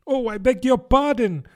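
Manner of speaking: high, hurried apology; hasty cry. A narrator's reading. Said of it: "cried Alice hastily".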